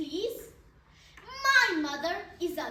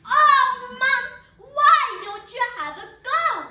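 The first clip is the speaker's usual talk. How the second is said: loud, higher pleading shout; 4 semitones higher, 8 dB louder than usual. Retold or imitated. Child begs mom to avoid dentist, shouting. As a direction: protest loudly, begging. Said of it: "I shouted".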